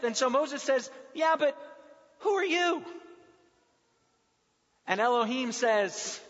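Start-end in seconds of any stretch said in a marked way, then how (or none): 1.1-2.8 blunt challenge. Acted. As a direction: demand to know who he is. Moses' blunt challenge to God.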